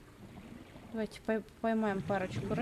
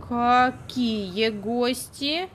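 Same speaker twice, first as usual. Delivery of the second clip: slow, louder incredulous question; 6 dB louder, much slower than usual. Real, not acted. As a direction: drag it out in disbelief. Slow loud indignant question. (недоумённо, протяжно)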